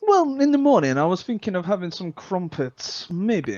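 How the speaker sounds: hammed-up old English tea-time voice; lilting mock-posh English accent; playful British posh. Plays up posh English stereotype.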